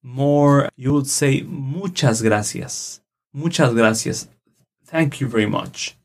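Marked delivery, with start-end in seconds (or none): 1.4-4.3 "muchas gracias" said slowly, MU-chas GRA-cias with a clear ch; slow model of "muchas gracias" for repeating; Spanish phrase demo. Shown as a demonstration. Teacher showing listeners "muchas gracias", slow careful demo. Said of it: "if you want to do something more".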